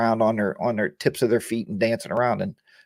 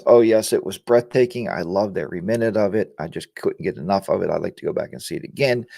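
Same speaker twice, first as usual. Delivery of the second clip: mock polite praise; 5 semitones lower than usual. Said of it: "the proper response is".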